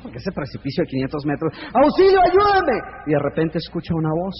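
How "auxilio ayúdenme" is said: agudo y lento, lleno de miedo; grito de auxilio. Acted. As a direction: clama con toda el alma. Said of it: "gritar con toda su alma por el temor". (el hombre del precipicio grita aterrado)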